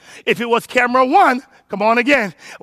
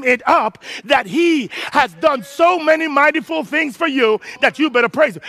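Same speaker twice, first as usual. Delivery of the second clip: raised, driving sermon cadence; full-force preaching; 3 semitones higher than usual. Real, not acted. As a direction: build it up and drive it home.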